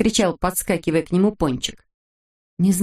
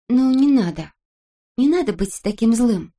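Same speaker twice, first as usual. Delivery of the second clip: higher-pitched, kindly pleading; tender coaxing; 5 semitones higher than usual. A narrator's reading. Girl soothing the sulking boy, tender coaxing. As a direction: coax gently out of a sulk. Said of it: "ласково заговорила она".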